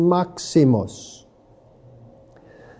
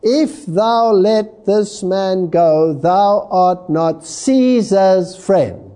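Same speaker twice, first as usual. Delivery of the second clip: crowd's warning; much slower than usual. Acted. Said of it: "the Jews cried out".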